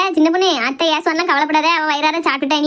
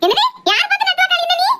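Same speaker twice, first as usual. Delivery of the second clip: much higher, indignant demand; offended outburst; 13 semitones higher than usual. Acted. Elder woman outraged at being called a scorpion, much higher indignant. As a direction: bristle at the insult.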